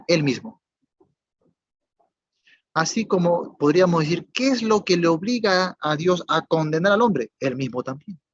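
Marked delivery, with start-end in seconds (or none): 4.3-7.3 rising preaching question. Real, not acted. Parallel question, raised voice.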